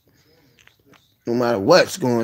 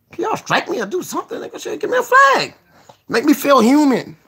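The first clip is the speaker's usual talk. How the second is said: high mock plea; 12 semitones higher than usual. Real, not acted. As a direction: beg them like a joke. Pleading mockingly to viewers.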